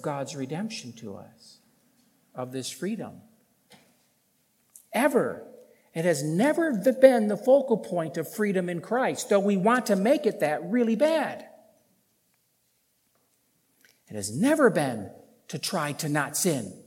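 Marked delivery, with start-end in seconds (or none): 4.9-16.8 raised, louder preacher's voice; emphatic preaching. Real, not acted. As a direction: drive the point home, high and forceful. Preaches at full force.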